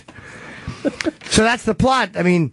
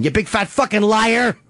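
raised-pitch playful accusation; mock accusation; 3 semitones higher than usual. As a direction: act out calling someone a liar, pitched up. Acted accusation, second take.

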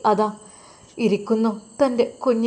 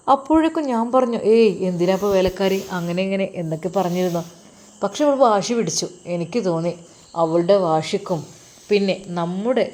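smug husband; 4 semitones lower than usual. Acted. Firoz boasts to his new wife about their plan, smug. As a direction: brag to her about the scheme.

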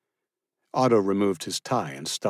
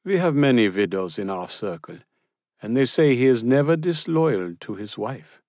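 a lightly voiced older Austrian woman, a little louder and higher; a gossip letting the newcomer in on a secret; Frau Schmidt, pointed; 6 semitones higher, 4 dB louder than usual. A narrator's reading.

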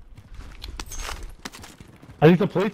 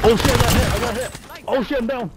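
hit hard crying out; 6 semitones higher, faster than usual. Real, not acted. Getting shot in a firefight.

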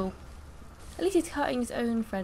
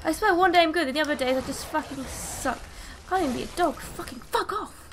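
frustrated rant; 5 semitones higher than usual. Real, not acted. Ranting after losing to the game.

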